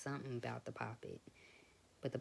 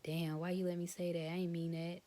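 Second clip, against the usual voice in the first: embarrassed dad; 5 semitones higher, 4 dB louder than usual. Retold or imitated. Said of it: "and he said".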